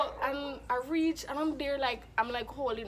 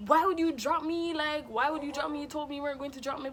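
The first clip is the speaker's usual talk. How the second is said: higher-pitched, mildly dramatic protest; dramatic complaint; 4 semitones higher, 4 dB louder than usual. Retold or imitated. Dropped flyer confronting her teammate, dramatic complaint. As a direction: reenact an indignant complaint, rushing toward the end. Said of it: "I was being dramatic".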